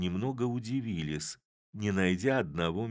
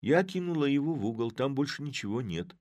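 hurried answer; 7 semitones higher than usual. A narrator's reading. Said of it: "сказала Оксана".

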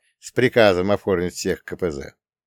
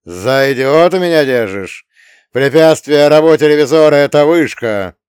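furious, much louder shouted threat; angry shout; 4 semitones higher, 10 dB louder than usual. Acted. Revizor yells at the lying captain, furious. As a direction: bellow the threat at him.

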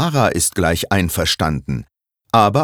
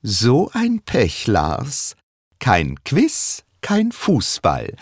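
gloating; 6 semitones higher, slower than usual. Acted. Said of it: "Mit Schadenfreude sieht Lena zu ihrem Mann".

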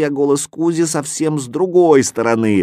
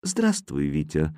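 new voice; 8 semitones lower, 7 dB quieter than usual. A narrator's reading. Geography appears.

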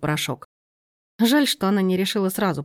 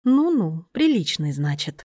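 mildly mocking, savouring the word; gloating sneer; slower than usual. Lena, scoffing at the aunt's idea of a decent man, mildly sneering. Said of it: "злорадно ухмыльнулась".

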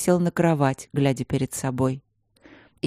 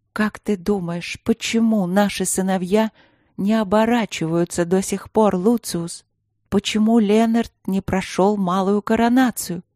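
shaky voice; 4 semitones higher than usual. Acted. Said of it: "дрожащим голосом произнесла".

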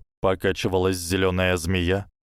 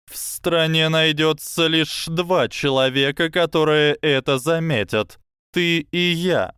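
snake voice; 8 semitones higher, 4 dB louder than usual. Acted. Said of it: "прошипела змея".

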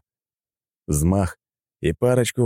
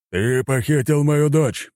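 slow, high-pitched furious roar; thundering; 8 semitones higher, slower than usual. A narrator's reading. Admiral confronting his daughter's kidnapper, thundering slowly. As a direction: thunder the accusation, drawing it out. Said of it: "прогремел Нахимов".

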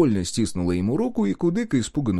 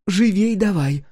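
sharp, high, loud hurry-up; urgent hissed command; 10 semitones higher, 5 dB louder, slower than usual. A narrator's reading. Girl hissing at the woodcarver to hurry, sharp and loud. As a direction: push him to move, fast and fierce. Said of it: "прошипела она".

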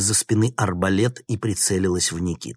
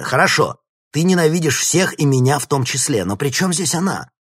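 high, loud angry shout; 9 semitones higher, 7 dB louder than usual. A narrator's reading. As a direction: yell his frustration at her. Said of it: "крикнул Никита".

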